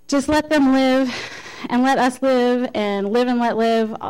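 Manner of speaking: a touch of mock exasperation; mildly exasperated retelling. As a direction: lightly act out someone pleading, fed up. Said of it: "exclaimed in exasperated tones".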